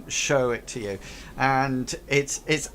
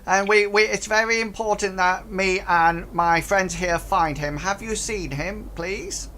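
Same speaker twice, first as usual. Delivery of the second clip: pleading goblin; 6 semitones higher than usual. Acted. Goblin begging the players for news of Hank. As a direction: ask it like an anxious little goblin.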